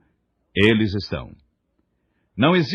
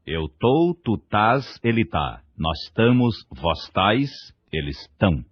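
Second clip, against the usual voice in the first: calm, casual conjugation. Retold or imitated. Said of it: "com a maior calma".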